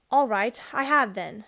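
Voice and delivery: put-on boy blurting it out loud, no longer hiding it. A narrator's reading. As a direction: say it loudly, not caring who hears. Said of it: "said Diggory in a much louder voice".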